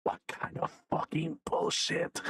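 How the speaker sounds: breathy, half-whispered rant; exasperated hiss. Pretend. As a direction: force it out with barely any voice. Ranting at the game's translator.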